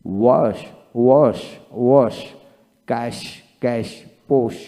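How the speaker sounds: each word said twice, evenly, like a teacher; steady classroom word drill; pronunciation drill. Shown as a demonstration. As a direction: model every word twice for the class to copy. Reads English sh-words as drill.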